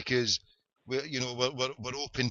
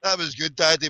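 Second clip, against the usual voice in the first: put-on high, loud excited kid; imitated young daughter; 4 semitones higher, 5 dB louder than usual. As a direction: mimic a thrilled child talking to Daddy. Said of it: "my wee lassie".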